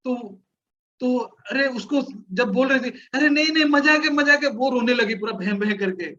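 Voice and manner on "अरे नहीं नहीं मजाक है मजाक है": pleading it's a joke. Retold or imitated. Insisting it was only a joke.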